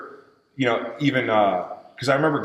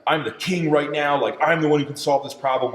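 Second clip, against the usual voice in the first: higher-pitched self-hype; fired up; 4 semitones higher than usual. Retold or imitated. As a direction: re-enact pumping yourself up. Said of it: "I'm all fired up".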